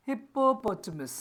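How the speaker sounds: hippopotamus said slowly in full; slow teaching read of hippopotamus; full word. Shown as a demonstration. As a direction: spell out hippopotamus syllable by syllable. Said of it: "पूरा क्या बोलेंगे".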